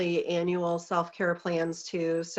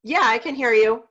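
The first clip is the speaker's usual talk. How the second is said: louder reply to a faint caller; to someone hard of hearing; 4 semitones higher, 7 dB louder than usual. Real, not acted. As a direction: raise the voice so she hears.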